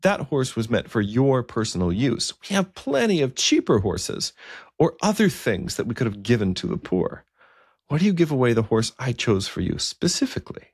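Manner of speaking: lightly voiced king, upset and pressing; king's protest. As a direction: question the bishop with wounded insistence. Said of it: "Oswin says to Aidan".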